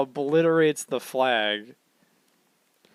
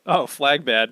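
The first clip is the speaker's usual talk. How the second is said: simple-minded Luffy; 4 dB louder, slower than usual. Retold or imitated. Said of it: "Luffy, simple man".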